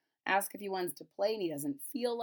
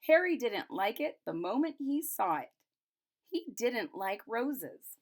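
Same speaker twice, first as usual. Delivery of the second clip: brighter storybook read, a bit higher; reading to children; 3 semitones higher than usual. A narrator's reading. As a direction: read it aloud like a picture book for kids. Reads picture book aloud.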